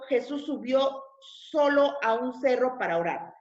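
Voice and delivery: animated, deliberate read-aloud; scripture reading. A narrator's reading. Preacher reading the Gospel to the congregation, animated narration. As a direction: read the Bible story clearly and expressively. Reads Bible passage aloud.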